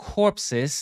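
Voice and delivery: corpses said as kop-sis, stress on the first syllable; pronunciation demo. Shown as a demonstration. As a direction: model corpses clearly for the class. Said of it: "ออกเสียงครับ corpses".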